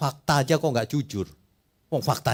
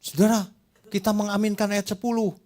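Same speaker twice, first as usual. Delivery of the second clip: higher, ringing mock pulpit appeal; mock preacher; 7 semitones higher than usual. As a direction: parody a preacher rousing the flock. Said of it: "Seolah-olah gitu".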